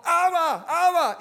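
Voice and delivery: put-on high, loud little-girl cry of Abba; child's shout. Little girl runs to her father, shouting joyfully. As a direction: shout it like a four-year-old spotting her dad. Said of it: "Gritó".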